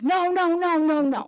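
woman refusing to wait in the autograph line; firm refusal. Retold or imitated. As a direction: shut the idea down fast. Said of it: "I'm like".

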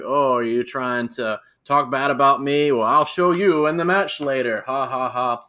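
a hint of an Irish lilt, teasing taunt; Becky Lynch impression. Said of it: "that's my female Irish, Irish person".

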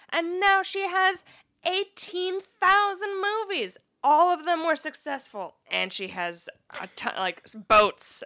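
high, stretched-out silly author impression; mock the writer in a silly little voice. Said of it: "that little accent that you use, that little voice".

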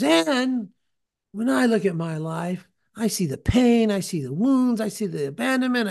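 lightly voiced heckler pressing harder, pitch up; revving up. Retold heckler lists his pain to the preacher, mildly worked up. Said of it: "And then he revs up again".

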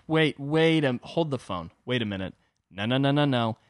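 a panicked mock denial; flustered Stalin. Stalin protesting to Roosevelt, flustered and loud. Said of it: "Stalin is like".

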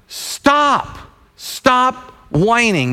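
a hint of a firm, slow scolding; stern God voice. God scolding Moses, lightly voiced firm rebuke. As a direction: tell him to quit complaining. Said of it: "the Lord is like".

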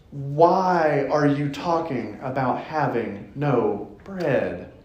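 slow, weary, worn-out question; exhausted. Retold or imitated. Jesus to his clueless disciples, weary. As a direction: sigh it out like a tired teacher. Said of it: "the exhaustion in Jesus' voice".

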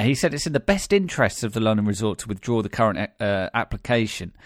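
single out the word "current"; stress on "current". Shown as a demonstration. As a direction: put the emphasis on "current". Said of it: "Emphasis on the word current".

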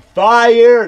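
high, drawn-out imitated yell; loud put-on shout, far above normal pitch. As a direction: holler it like an excited moviegoer. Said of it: "the guy to just yell out".

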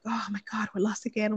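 hushed, exasperated whisper; whispered nag. Retold or imitated. Wife griping at lost husband in a whisper. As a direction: breathe the complaint out under your breath.

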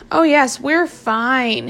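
slow, drawn-out sarcastic hiss; hissed sarcasm. Acted. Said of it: "hissed Tubby Ted".

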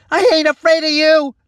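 high, loud yell with a cracking voice; shout, scared but defiant. A narrator's reading. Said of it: "his voice cracking".

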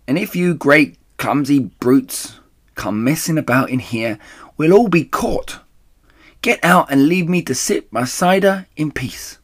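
high, loud, quarrelsome rat voice; shrieking Rat. A narrator's reading. Rat ordering the clumsy brutes out, angry shriek. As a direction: scold the intruders shrilly. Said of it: "shrieked Rat".

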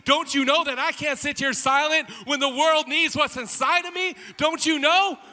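from firm to loud, high defiance; building defiance. Acted. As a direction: rise with each question to a peak. Beggar's defiant inner answer.

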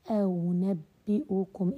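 أنبئكم very slow, the hamza before kum softened; teacher modelling the eased hamza; eased second hamza. Shown as a demonstration. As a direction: draw out أنبئكم without a full glottal stop. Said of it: "لم أحقق الهمزة الثانية".

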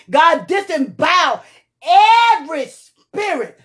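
rising fervent intercession; preaching at full force. Real, not acted. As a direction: cover them with urgent prayer.

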